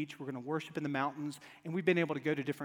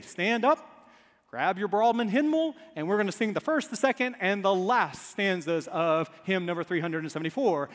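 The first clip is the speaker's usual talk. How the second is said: lightly voiced hymn leader, starting loud; imitated hymn leader; 5 dB louder than usual. Song leader telling the congregation to stand, mildly hearty. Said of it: "with churches that say".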